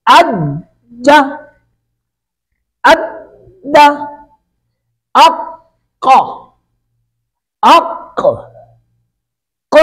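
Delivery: अज्जा, अद्दा, अक्का with a held closure, then an echoing release; slow split syllables in अज्जा, अद्दा, अक्का; qalqalah demonstration. Shown as a demonstration. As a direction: hold the doubled consonant in अद्दा and अक्का, then bounce it open. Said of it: "कलकला की कैफियत आनी चाहिए".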